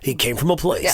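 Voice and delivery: a light trailer announcer tease; movie trailer voice. Shown as a demonstration. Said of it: "my lead up is".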